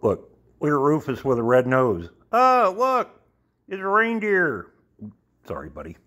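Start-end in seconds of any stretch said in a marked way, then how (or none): 0.6-4.7 high squeal of delight; squeaky praising a dog. Real, not acted.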